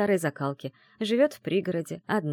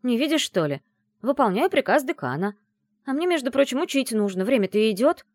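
grumbling; 5 semitones higher, 4 dB louder than usual. A narrator's reading. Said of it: "проворчала".

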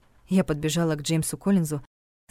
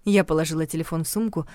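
ordinary delivery, nothing marked

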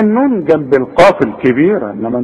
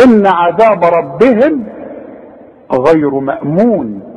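slow recitation of the verse; tajweed reading; Quran recitation; slower than usual. Acted. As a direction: intone slowly, showing the m.

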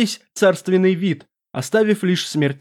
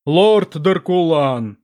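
slow, commanding call by name; calling out slowly; much slower than usual. Acted. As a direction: summon him from afar, drawn out. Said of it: "окликнул демон".

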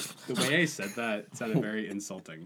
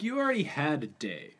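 mocking Ivan; 6 semitones higher than usual. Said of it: "You were like".

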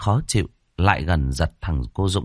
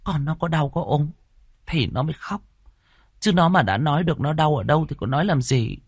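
angry; 8 semitones higher than usual. A narrator's reading. Wife defends crying baby to husband, angry. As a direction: protest crossly in a high voice. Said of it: "Bà địa chủ nghe vậy thì tức giận".

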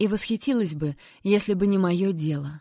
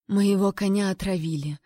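calm and even. Acted. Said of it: "неожиданно спокойно и ровно".

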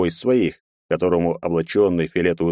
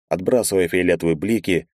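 ordinary delivery

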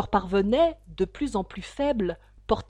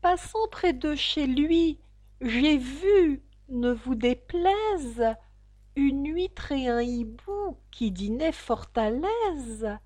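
trembling voice; 5 semitones higher, slower than usual. Acted. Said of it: "d'une voix tremblante".

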